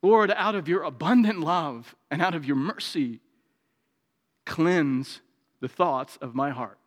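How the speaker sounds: earnest prayer to the Lord, unhurried; spoken prayer. Acted. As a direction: pray it humbly before the congregation. Prays aloud in sermon.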